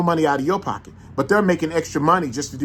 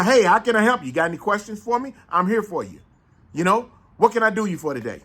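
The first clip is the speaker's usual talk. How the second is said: higher, eager helpful salesman voice; friendly clerk; 6 semitones higher than usual. Retold or imitated. Showing how a good clerk greets customers, eager and friendly. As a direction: put on a cheerful service voice. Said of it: "None of that".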